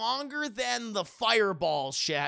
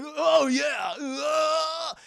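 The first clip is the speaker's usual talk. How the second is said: high, loud charging yell; battle cry; 7 semitones higher, 6 dB louder, much slower than usual. Retold or imitated. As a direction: yell as you rush in. Hero charges in shouting.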